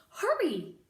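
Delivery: high loud yell; shouting. Acted. The cook yells at Mig to hurry. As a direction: snap it out. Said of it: "shouted the cook".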